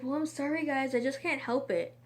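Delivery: lightly voiced shrugging classmate; a hint of playful sorry-not-sorry; apologetic friend. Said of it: "It's like".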